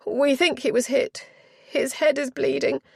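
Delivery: a flustered chaperone insisting she be heard; agitated duenna. Acted. Duenna reports the injury.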